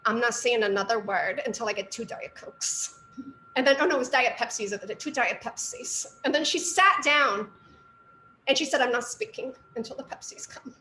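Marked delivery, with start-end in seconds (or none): 0.1-3.0 put-on thick Philadelphia accent; Philly accent. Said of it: "she had a really thick Philly accent". 8.8-10.7 put-on thick Philadelphia accent, demanding; Philly accent, refusing to talk. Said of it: "she had a really thick Philly accent".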